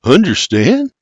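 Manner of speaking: high, rising puzzled echo; mumbled question. A narrator's reading. William shakes his head at Mary, tentative and puzzled. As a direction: repeat the word, lost and questioning. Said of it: "he mumbles".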